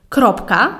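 ordinary delivery

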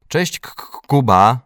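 high, loud stammered greeting; stuttered exclamation. A narrator's reading. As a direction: catch on the K, then shout the name. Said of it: "wykrzyknął Dominik na nasz widok".

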